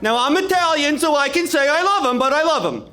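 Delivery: hammed-up Italian warmth, punching love; the governor insisting he loves him, loud and laughing; Cuomo voice. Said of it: "He goes".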